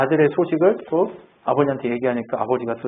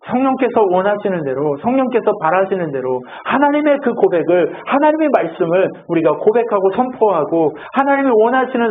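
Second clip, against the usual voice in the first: higher, insistent pulpit delivery; fervent preaching; 5 semitones higher than usual. Real, not acted. Preacher urging believers to confess God's word, fervent preaching. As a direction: press each phrase on the congregation.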